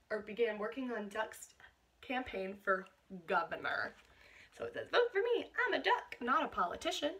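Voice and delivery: put-on reading a picture book aloud to children; lively read-aloud with a bright poster line; picture-book narration for a class; storybook reading.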